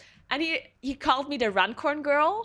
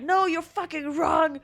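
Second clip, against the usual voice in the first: slow, higher, laughing through the quote; laughing mock retort; 5 semitones higher, 3 dB louder than usual. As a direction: friend contradicting her, through laughter. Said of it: "And he was like".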